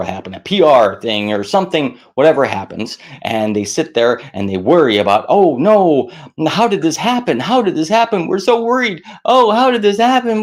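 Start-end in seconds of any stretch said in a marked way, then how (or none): 5.3-10.4 high, rising panicked fretting; mock panic. Voicing a panicked company after a disaster, high-pitched. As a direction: wring your hands in a high voice.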